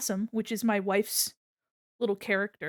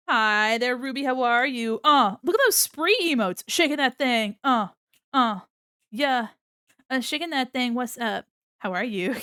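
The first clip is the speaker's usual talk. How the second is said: bright, louder stream greeting; upbeat greeting; 2 semitones higher, 5 dB louder than usual. Real, not acted. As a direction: welcome viewers with energy. Greeting chat viewer.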